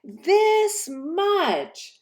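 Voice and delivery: put-on high, eager child-hare voice; a small bunny asking eagerly; little hare.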